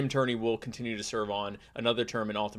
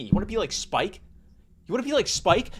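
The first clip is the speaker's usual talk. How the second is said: hype ad voice; 6 semitones higher than usual. Acted. Ad-style catchphrase.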